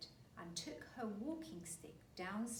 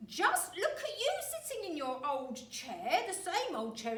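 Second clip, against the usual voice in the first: put-on high, loud, cackling old man; gloating shout; 9 semitones higher, 10 dB louder than usual. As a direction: shout it in triumph. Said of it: "he cried".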